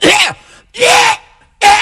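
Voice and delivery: strangled high yelps; choking yeah. Acted. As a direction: choke out each yeah in a high strained yelp. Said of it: "He's like".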